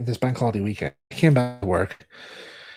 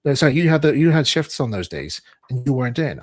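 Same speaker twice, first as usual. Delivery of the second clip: stern boss; 3 semitones higher, 6 dB louder than usual. Retold or imitated. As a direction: boss accusing him of missing his shifts. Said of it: "pointed to the screen and said".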